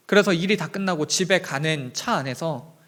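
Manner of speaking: normal talking voice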